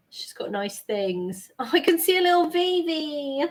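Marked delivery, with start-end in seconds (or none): 1.6-3.4 much higher, louder squeal of delight; gushing over a cute figure; excited. Real, not acted. Delighted at spotting Vivi.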